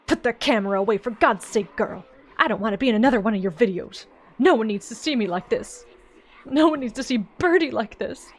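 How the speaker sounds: loud, fast angry farmer; angry refusal. Acted. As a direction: snap at the girl to stop filming. Farmer angrily refuses filming.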